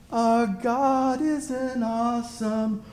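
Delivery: slow sung line that bursts into a high, loud scream on God; sung croon exploding into a screamed God; building to a scream. Retold or imitated. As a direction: sing it slowly, then scream the last word. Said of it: "And he screams".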